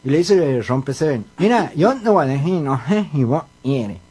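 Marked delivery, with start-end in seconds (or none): 1.4-4.0 nasal cleft-palate speech; mock nasal speech impediment; gangoso. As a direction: talk through the nose with blurred consonants. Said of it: "vos sos un gangoso igual que yo".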